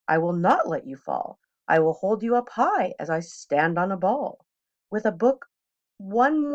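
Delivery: put-on an eager showman cat tempting the kids; playful cat showing off tricks; cat in the hat. Cat boasts on the ball.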